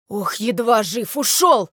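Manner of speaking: drawn-out, lightly acted gasp of relief; winded after a narrow escape; out of breath. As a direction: complain as if barely catching your breath. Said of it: "едва переводя дух".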